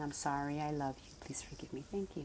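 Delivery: quiet, gentle recitation of the prayer; soft mantra. Shown as a demonstration. Reciting her inner mantra to the audience, softly. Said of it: "in my mind, I'm saying".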